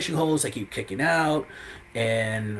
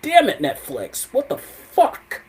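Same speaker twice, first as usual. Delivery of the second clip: high, exasperated cry at the screen; frustrated outburst; 11 semitones higher, 7 dB louder than usual. Retold or imitated. Fan yelling at Netflix over the black screen, high exasperated cry. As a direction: vent at Netflix, pitch shooting up. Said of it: "I was like".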